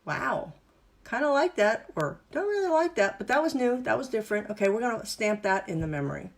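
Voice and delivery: chipmunk brain stirring, puzzled, then pleased; sleepy chipmunks waking. Retold or imitated. Instructor voicing the brain chipmunks noticing something new, waking up curious. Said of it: "The chipmunks are really going".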